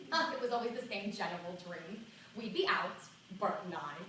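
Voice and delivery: put-on reluctant old New York lady confiding in an interviewer; old lady telling her secret; elderly woman's monologue. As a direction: play a seventy-two-year-old, embarrassed but opening up. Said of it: "This monologue is for her".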